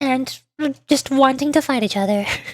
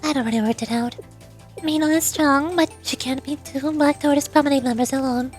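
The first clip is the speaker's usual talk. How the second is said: lightly voiced, assured strategist; understated poise while laying out a scheme; composed, calculating president; 3 dB quieter than usual. President explaining her plan to Sensei, lightly voiced composure.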